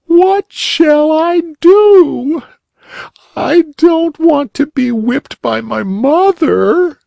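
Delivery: put-on high, loud sobbing little girl. A narrator's reading. Polly Flinders sobbing among the cinders, high and tearful. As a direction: wail it out like a crying child. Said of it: "sobbed Polly Flinders".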